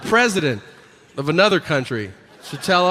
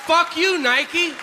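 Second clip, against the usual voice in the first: yelling at Nike; 12 semitones higher, slower than usual. Real, not acted. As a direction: shout it at the brand, fed up.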